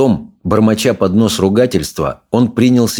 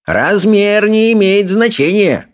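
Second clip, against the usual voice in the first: high, slowed villain voice; a sly villain's purr, slowly; Alvin the Treacherous; 12 semitones higher, slower than usual. A narrator's reading. Alvin answers the consul in a high, slow sly voice.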